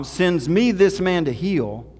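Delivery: loud and slow, each word pushed out in disbelief; outraged king. Acted. King of Israel, clothes torn, loudly and slowly protests the request. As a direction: say it like the request is an insult.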